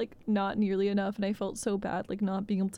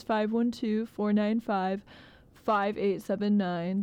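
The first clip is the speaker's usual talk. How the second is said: phone number read; slower than usual. Shown as a demonstration. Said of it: "reading out phone number".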